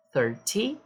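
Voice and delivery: THIRty, stress on THIR; stress on the start. Shown as a demonstration. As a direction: hit the first syllable of Thirty. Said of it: "o foco aqui é na primeira sílaba". (ênfase na primeira sílaba)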